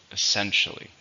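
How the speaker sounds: "Essentially" with the stress on SEN; stress on second syllable. Shown as a demonstration. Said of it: "the stress is in the second".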